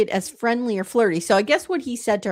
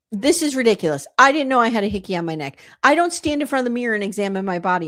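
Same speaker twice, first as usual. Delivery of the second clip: ordinary talk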